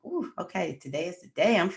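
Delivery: retold labor, pushing through the pain; mock labor pain. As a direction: act out a contraction hitting mid-sentence. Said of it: "I'm like".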